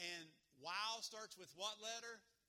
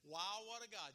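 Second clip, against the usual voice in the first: a bit louder, lifted praise; enthusiastic; 2 semitones higher, 4 dB louder than usual. Shown as a demonstration. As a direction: cheer it out once more. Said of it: "with enthusiasm".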